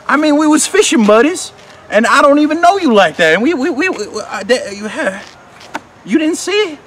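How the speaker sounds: very high, loud, sputtering protest; frantic, stammering outburst; outraged shouting. Acted. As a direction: yell in high-pitched indignation, tripping over words. Horns confronts old acquaintance.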